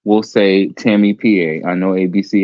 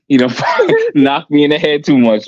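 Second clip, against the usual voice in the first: laughing; 4 semitones higher, 3 dB louder than usual. Real, not acted. Laughing while talking.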